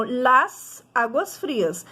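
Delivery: LAS held apart from ÁGUAS FRIAS; clear break. Shown as a demonstration. Teacher showing the plural breaks the junction, LAS separated from ÁGUAS. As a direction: let the S of LAS close it before ÁGUAS. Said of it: "ele vai dar uma quebra".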